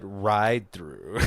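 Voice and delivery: Jamal's own word. Retold or imitated. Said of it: "or, or as he said".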